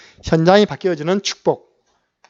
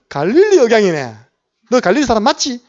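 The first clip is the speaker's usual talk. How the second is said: raised, higher accusation; accusing servant; 5 semitones higher, 4 dB louder than usual. Retold or imitated. Servant confronting Peter at the fire, loud and accusing. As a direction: nail him as a Galilean.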